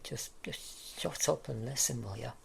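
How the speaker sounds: snapping in irritation; exasperated. Acted. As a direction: cut them off sharply. Snaps at the mocking partner.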